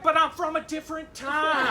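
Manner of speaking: lightly voiced grumpy grandpa; high, loud old-timer excuse; old man voice. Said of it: "the old man voice".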